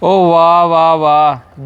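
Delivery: low, drawn-out sarcastic wow. Acted. Brother mocks sister's threat about future wife.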